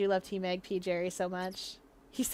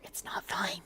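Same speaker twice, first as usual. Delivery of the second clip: soft, low whisper; whispered aside; 4 semitones lower, 4 dB quieter than usual. Real, not acted. Player fretting over curtains above a stove, whispered. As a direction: whisper it under your breath. Aside about unsafe kitchen.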